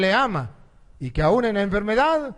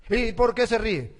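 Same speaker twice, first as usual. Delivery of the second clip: indignant question; 3 semitones higher than usual. Retold or imitated. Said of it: "Se puso brava".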